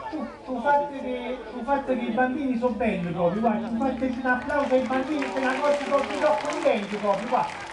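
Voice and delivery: lightly put-on voice of a showman praising children; a hint of an effusive celebrity impression; impersonated personality. Comedian imitating a personality who greets the audience, lightly impersonated. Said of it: "Lui vi avrebbe salutato in questo modo".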